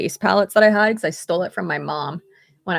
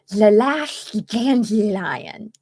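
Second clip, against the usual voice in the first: lightly voiced slow sloth; a hint of a slow lisping sloth; Sid the Sloth voice; 4 dB louder, much slower than usual. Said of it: "I love my Sid the Sloth voice".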